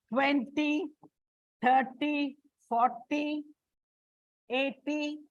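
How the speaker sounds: twenty, thirty, forty, eighty, each stressed on the first syllable. Shown as a demonstration. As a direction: list each number separately, leaning on the start of twenty, thirty, forty, eighty. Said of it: "it is on the first syllable".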